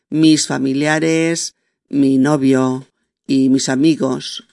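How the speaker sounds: slow list read with clear breaks; slow careful reading. Shown as a demonstration. Teacher rereading the list slowly. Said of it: "Como os decía antes".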